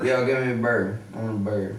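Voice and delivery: put-on light Saint Louis accent, "burr" for bear; tossing off "give me a burr" in Saint Louis style; mock Saint Louis. Riffing with friends, light mock Saint Louis accent. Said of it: "that's the accent".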